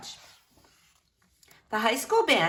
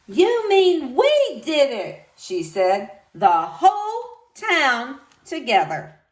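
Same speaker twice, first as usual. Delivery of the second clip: slow, louder wondering; gentle surprise; 4 semitones higher, 5 dB louder, slower than usual. Acted. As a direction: marvel at the shared win. Tired librarian, warm surprise.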